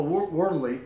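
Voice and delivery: "worldly" picked out with deliberate emphasis; stress on worldly. Real, not acted. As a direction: lean on the word "worldly". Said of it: "I emphasize the word".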